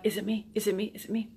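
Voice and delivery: whispered, worried, to herself; a nervous whisper, asking again and again; anxious whisper. Retold or imitated. Anxious podcasters asking themselves.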